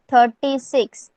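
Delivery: thirty-six, stretched slowly for the class; slow, drawn-out number. Shown as a demonstration. Teacher to online pupils, slow clear number. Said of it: "thirty-six is called as".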